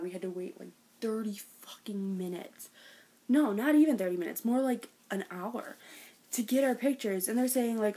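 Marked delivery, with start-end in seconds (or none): 0.0-2.7 whispered aside. Real, not acted. Fan whispering to viewers about the long wait. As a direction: drop to a whisper to complain.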